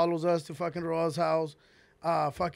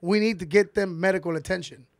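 urgent plea; 6 dB louder than usual. Retold or imitated. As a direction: press hard, they need help. Urgent plea about injured friends.

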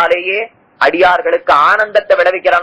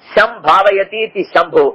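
slow word split; 3 semitones higher, much slower than usual. Shown as a demonstration. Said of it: "நேர விக்கிரகப்படுத்தி காட்டினார்".

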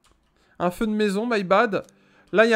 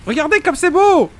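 awed; 5 semitones higher, 4 dB louder than usual. Real, not acted. Awed by the game's fire.

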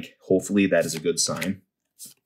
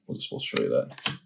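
whispered aside; 7 semitones lower, 4 dB quieter than usual. Real, not acted. Caught showing code card.

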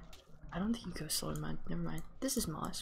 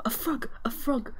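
thrilled cry, louder and higher; excited shout; 5 semitones higher, 4 dB louder than usual. Real, not acted. Player spotting her first frog, shouting with joy. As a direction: yell it out the moment you spot it.

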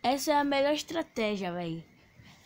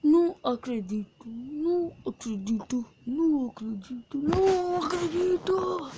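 hammed-up crying over losing; mock despair; 5 semitones higher than usual. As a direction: wail the disbelief like a sore loser. Lost the match, mock despair.

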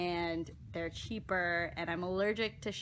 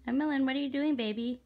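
calling sweetly; 4 semitones higher, 3 dB louder, faster than usual. Real, not acted. Calling to the baby.

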